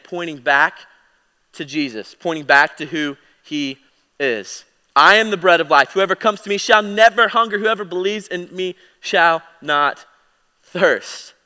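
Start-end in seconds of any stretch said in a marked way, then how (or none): 4.9-11.3 louder, higher ringing declaration; triumphant scripture proclamation; bold proclamation. Acted. Emphatic proclamation of Jesus quote.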